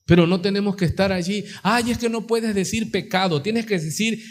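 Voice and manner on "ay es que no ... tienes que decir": mock timid objection. Mimics timid objectors to preaching.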